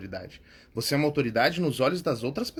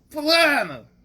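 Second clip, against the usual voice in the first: loud, high call of a name; throat-forced shout; 12 semitones higher, 7 dB louder, much slower than usual. Acted. Attendant calling a customer's name across the mall, forced shout. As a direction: belt it out, straining from the throat. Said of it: "ele tem que gritar o nome".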